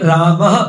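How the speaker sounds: रामः with a light breathy ह at the end; soft final h. Shown as a demonstration. Teacher demonstrating the visarga in रामः with a soft final h. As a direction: end रामः on a faint hidden ह. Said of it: "थोड़ा सा ह बोलते हैं".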